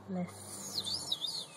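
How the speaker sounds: whispered "Lisp" with lisp; lisped word. Real, not acted. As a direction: say "Lisp" softly with a lisp. Mocking own lisp.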